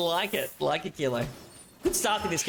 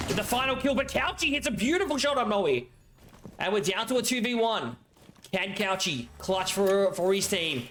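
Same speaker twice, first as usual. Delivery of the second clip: rising hype play-by-play; excited caster; 4 semitones higher than usual. Acted. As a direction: build the clutch moment. Round climax casting.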